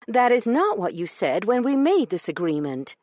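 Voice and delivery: high, loud, sharp lady's retort. Acted. Io retorting to Branson, sharp and high. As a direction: snap it back like an offended lady. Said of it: "she retorted sharply".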